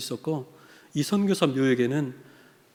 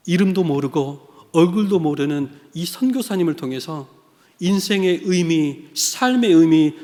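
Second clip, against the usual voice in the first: key phrases punched out loud; emphatic preaching; 2 semitones higher, 6 dB louder than usual. Real, not acted. Preacher telling how God called him through a missionary, emphatic. Preaches about his calling.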